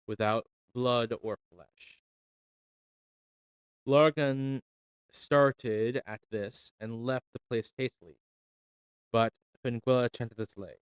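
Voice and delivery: measured, solemn storytelling read; story narration. A narrator's reading. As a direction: read the old legend aloud like a fireside tale. Reads an Irish legend aloud.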